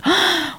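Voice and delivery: sharp high yelp of mock fright; mock gasp of fright. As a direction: let out a high startled yelp, half joking. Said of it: "otro lado decía".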